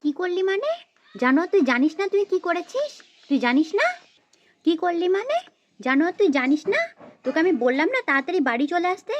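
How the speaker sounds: cross scolding with insistent questions; exasperated telling-off; angry mother. Acted. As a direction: scold your child for coming home late. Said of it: "মা তো দেখছি পুরো ক্ষেপে গেছে".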